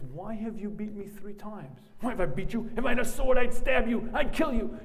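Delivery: loud, high furious shout; a man screaming at his donkey in fury; furious Bilam. Acted. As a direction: rage at the donkey, threatening. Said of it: "The donkey opens its mouth and says".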